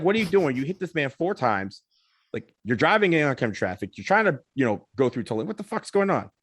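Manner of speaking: acted-out disbelief, mildly heated; incredulous confrontation. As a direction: mimic exasperated toll workers demanding an explanation. Toll operators confront the driver.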